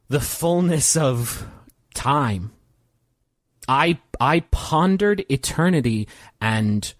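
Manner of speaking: slow, halting recollection with long pauses; lightly voiced reflective John. John confides in Merle about pondering eternity, slow and reflective. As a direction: think it out gravely, phrase by phrase. Game master plays John.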